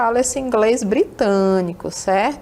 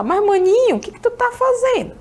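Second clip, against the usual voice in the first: much higher, lively voicing of a local from the north; northern Brazilian speech; 11 semitones higher than usual. Teacher acting out a northern local greeting a friend, high and lively. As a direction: play a northern local calling out to his buddy. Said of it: "A gente sempre fala".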